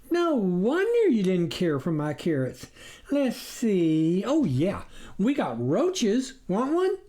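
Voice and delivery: high country wife voice, rising on the offer; a farm wife offering roaches to a guest; farmer's wife, cheerfully hospitable. A narrator's reading.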